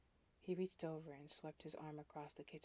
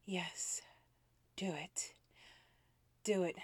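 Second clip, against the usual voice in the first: growled demand; 3 semitones higher, 10 dB louder, slower than usual. Acted. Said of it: "I growled at him".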